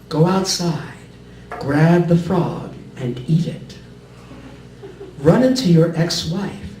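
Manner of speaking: measured poetry recital with deliberate line breaks; poem reading. Acted. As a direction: read each line as a separate instruction, pausing between. Reads a poem aloud.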